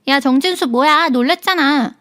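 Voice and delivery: mock-startled friend yelling his name; startled snap. A narrator's reading. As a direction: snap at him after the fall. Friend startled, snapping at husband.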